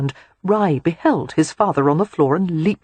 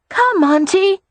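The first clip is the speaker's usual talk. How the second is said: put-on high, loud child voice; small boy wheedling his aunt; coaxing little boy; 5 dB louder, slower than usual. A narrator's reading. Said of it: "he coaxed".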